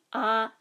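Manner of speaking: Ah held smooth and level; Hmong mid tone. Shown as a demonstration. Teacher demonstrating the unmarked tone, level. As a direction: keep Ah even. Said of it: "smooth, even tone".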